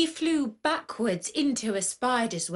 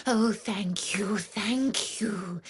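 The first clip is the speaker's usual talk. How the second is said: whispered thanks; slower than usual. Acted. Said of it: "said the mouse".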